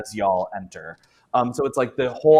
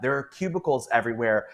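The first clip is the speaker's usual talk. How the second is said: usual speaking voice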